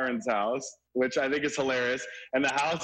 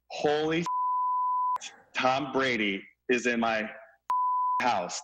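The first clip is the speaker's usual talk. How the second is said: slow, drawn-out stunned gasp; shocked; slower than usual. Retold or imitated. Neighbor recalling realizing Brady was in his house, stunned and slow. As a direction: stretch it out in disbelief. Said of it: "I was like".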